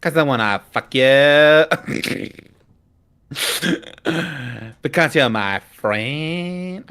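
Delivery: put-on laid-back California accent; slow California drawl. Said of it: "I have to do the California voice".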